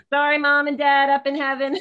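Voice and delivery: real laughter welling up, loud and high; laughing apology. Real, not acted. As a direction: call it out through rising laughter. Joking apology to late parents, laughing.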